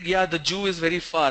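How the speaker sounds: "zoo" said as joo; imitated mispronunciation. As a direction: quote the man's j in "zoo". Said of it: "it's not Jew".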